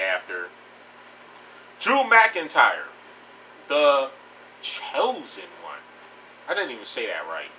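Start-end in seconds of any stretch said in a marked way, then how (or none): 1.8-5.8 put-on failed Scottish accent. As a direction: try a Scottish accent and miss it. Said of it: "I was trying to do the fucking Scottish accent".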